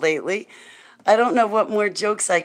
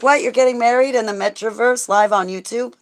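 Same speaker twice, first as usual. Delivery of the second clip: higher and louder, mock disbelief; shocked crowd; 6 semitones higher, 4 dB louder than usual. Everybody reacting to the Metroverse wedding news, mock shocked. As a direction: act out everyone's jaw dropping.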